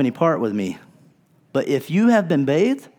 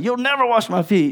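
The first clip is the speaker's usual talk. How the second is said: mock refusal; 9 semitones higher than usual. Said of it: "He's like".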